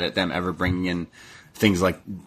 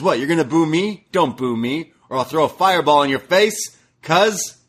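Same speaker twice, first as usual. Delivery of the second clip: mock shout; 6 semitones higher than usual. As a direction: bark it like a heel taunting the crowd. Jericho quote mocking crowd.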